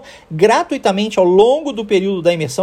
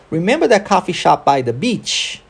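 connected English rhythm, "remember" peaking, "beach" lifted at the end; model rhythm and intonation. Shown as a demonstration. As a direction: question with stress on "remember", rising on "beach". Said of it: "tenta imitar o som que eu fizer".

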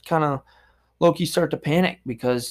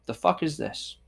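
quiet aside; 7 dB quieter than usual. Retold or imitated. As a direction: say it softly under your breath. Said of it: "I've said those words before".

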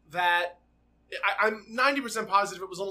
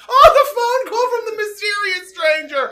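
high, loud, hammed-up announcement; over-the-top dramatic cry; melodramatic exclaim; 13 semitones higher, 9 dB louder than usual. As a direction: play it like a soap-opera cliffhanger.

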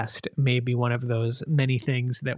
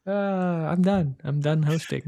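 mock defeat; 2 semitones higher than usual. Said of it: "I give up my hosting ship".

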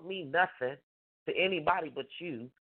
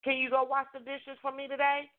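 simple sweet ask; 5 semitones higher than usual. Shown as a demonstration. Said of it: "Just simply".

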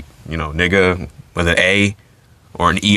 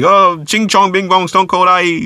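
much higher, mocking sing-song gibberish; mock Chinese gibberish; 10 semitones higher than usual. The Rock mocking Stone Cold in fake Chinese, high mocking sing-song. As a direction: parody a language to make fun. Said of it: "he said it in Chinese".

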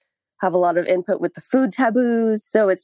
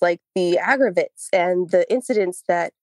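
breathless, panting between words; out of breath. Real, not acted. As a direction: talk while short of breath. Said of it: "way out of breath".

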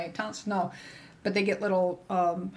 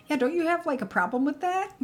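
mock probing question; 8 semitones higher than usual. Provider's probing question retold.

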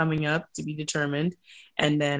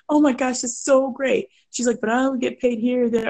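high, rapid questions; imitating a fussing bride; anxious bride; 9 semitones higher than usual. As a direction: pile on the worried questions. Bride voiced again.

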